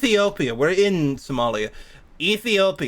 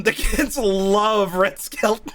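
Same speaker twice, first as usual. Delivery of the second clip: laughing sarcasm; 4 semitones higher, much slower than usual. Real, not acted.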